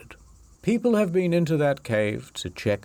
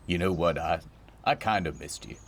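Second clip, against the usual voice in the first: tender; 5 semitones lower, 4 dB quieter than usual. Pretend. Tender confession to mermaid.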